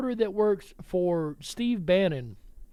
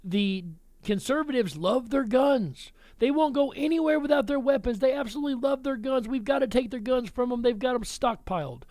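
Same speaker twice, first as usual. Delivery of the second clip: higher, sneering parody of the left's claims; sarcastic impression of critics, pitched up; mock version of the left; 4 semitones higher than usual. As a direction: lay on the scorn as you voice your opponents. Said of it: "According to the terrorist left".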